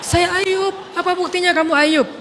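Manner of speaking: high, loud challenge; heated exchange. Acted. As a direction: demand proof. Husband and wife arguing identity. (menantang dengan keras)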